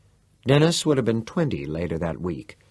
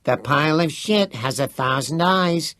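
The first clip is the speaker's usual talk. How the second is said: a higher, odd voice, dead earnest; said seriously; 6 semitones higher than usual. Acted. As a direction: deliver it like solemn wisdom. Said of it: "Teddy said seriously".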